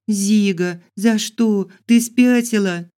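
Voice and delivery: high loud disbelief; shocked outrage. Acted. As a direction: cry out at the betrayal. Betrayed heroine cries out.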